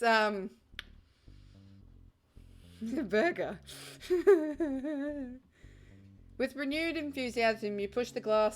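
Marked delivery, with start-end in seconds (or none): 6.4-8.6 measured second-person game narration; even, scene-setting read with falling line ends; story narration. A narrator's reading.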